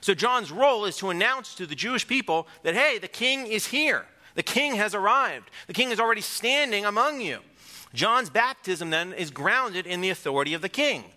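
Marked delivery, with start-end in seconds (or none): 2.7-7.4 excited announcement. Pretend. Voicing John's announcement.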